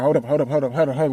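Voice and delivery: rapid-fire repeated plea to wait; flustered. Acted. Father scrambling to grab all the pieces, flustered.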